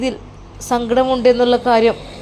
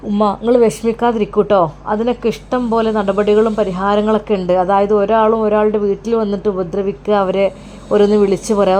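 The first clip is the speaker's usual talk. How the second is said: lightly voiced son; 3 semitones lower than usual. Son explains it's illegal.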